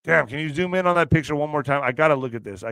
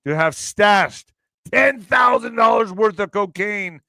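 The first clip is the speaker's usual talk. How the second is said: shouted headline; 4 semitones higher, 4 dB louder than usual. Real, not acted.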